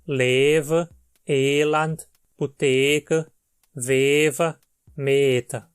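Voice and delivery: each word read out clearly in Dutch; Dutch example words. Shown as a demonstration. Teacher lists Dutch words, one by one. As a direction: model the vowels one word at a time.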